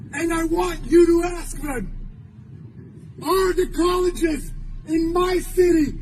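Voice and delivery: forceful, emphatic public address; urgent protest oratory; impassioned rally speech. Real, not acted. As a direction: hammer out each phrase to the crowd, with long pauses.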